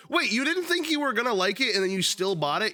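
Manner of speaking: ordinary talk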